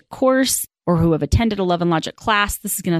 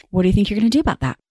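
right questioning tone; much faster than usual. Shown as a demonstration. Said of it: "it's in the tone".

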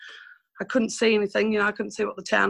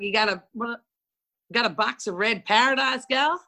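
put-on Aussie accent, rising at the end; heavy Australian accent; 2 semitones higher than usual. Bloke ordering from the new barmaid, heavy Australian accent. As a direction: imitate a broad Australian bloke at the bar. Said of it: "they had that heavy Australian accent".

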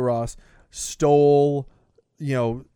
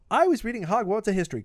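lightly voiced know-it-all, higher and quicker; a quick, pitched-up hint of a bookish student; Hermione; 5 semitones higher, faster than usual. Hermione slamming down her book, in a lightly mimicked higher voice. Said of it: "She goes".

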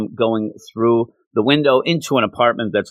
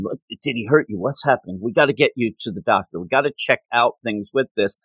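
mild concern; faster than usual. Retold or imitated. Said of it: "obviously real concerned".

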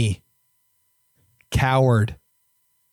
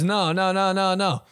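1 eager insisting; 6 semitones higher than usual. Retold or imitated. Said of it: "And he goes".

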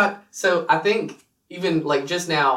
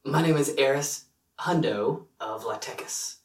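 tentative, understated raspy character voice; low raspy voice; 4 dB quieter than usual. Shown as a demonstration. Player introduces his Star Wars character, attempted low raspy voice. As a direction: try for a deep, raspy loner introduction. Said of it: "a lower raspy voice".

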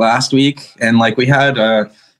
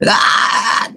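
strained breathy cry. Shown as a demonstration. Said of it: "It kinda turns into this kinda".

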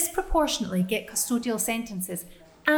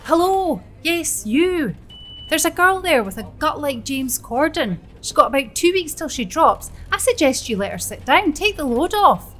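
loud, high call across the bus; 5 semitones higher, 7 dB louder than usual. Acted. Joan to a man on the bus, loudly calling him out. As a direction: shame him into giving up his seat.

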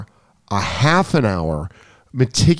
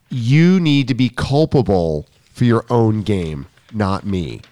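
slow, deliberate retold reprimand; firm lecture; slower than usual. Coach retelling telling a student to take responsibility, firm. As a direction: spell it out slowly and firmly. Coach re-enacts stern talk verbatim.

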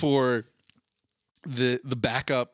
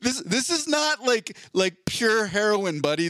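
laughing; 7 semitones higher, slower than usual. Real, not acted. Mocking the officer's theft claim.

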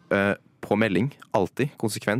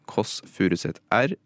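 lightly imitated Furuset accent; Furuset-dialekt. Shown as a demonstration. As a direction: put on a Furuset R. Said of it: "en liten egen variasjon på språket". (lett etterlignet Furuset-dialekt)

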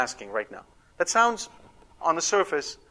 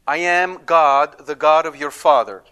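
solemn declaration; 10 dB louder than usual. Shown as a demonstration. Preacher voicing God to Jacob.

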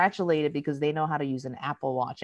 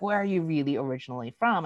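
lightly imitated probing stranger; understated mock curiosity; repeat questioner; faster than usual. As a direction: ask it near your usual pitch. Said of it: "the eighth person that comes up".

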